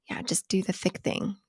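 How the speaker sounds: soft whisper; hushed tip; whispered aside. Acted. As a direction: tell it in a conspiratorial whisper. Joking aside about coffee.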